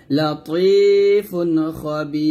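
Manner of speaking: খ বি with a true খ, not খা; slow recitation with a clean খ sound; proper খ. Shown as a demonstration. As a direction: recite খ বি with a short খ. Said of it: "খ উচ্চারণ করতে হবে".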